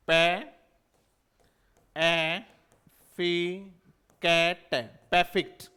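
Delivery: परफेक्ट broken into separate sounds, then "PE-fikt"; sounding out परफेक्ट. Shown as a demonstration. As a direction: sound out परफेक्ट bit by bit with long pauses. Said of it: "ये इसका transcription होता है".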